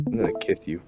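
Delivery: kith with a lisp on the s. Acted. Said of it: "why'd you grow a lisp when you said that".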